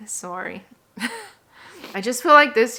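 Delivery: a little tearful, laughing it off; teary laugh. Real, not acted. Vlogger to viewers after a hard year, real teary laughing. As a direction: apologise through emotion with a shaky laugh. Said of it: "I'm getting emotional".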